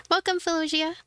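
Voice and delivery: bright little helper, lifted high; high cute girl voice. Acted. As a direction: play the sweet, nervous apprentice. Voices Chirara.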